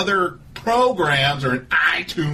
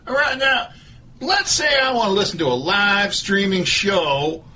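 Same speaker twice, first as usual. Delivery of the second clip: Doctor Phil voice; 4 semitones higher than usual. Acted. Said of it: "This is Doctor Phil".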